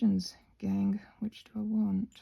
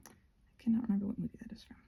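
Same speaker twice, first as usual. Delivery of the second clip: whispered aside; 6 dB quieter, faster than usual. Real, not acted. Aside about movie quote.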